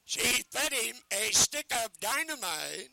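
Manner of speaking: barker call. Shown as a demonstration.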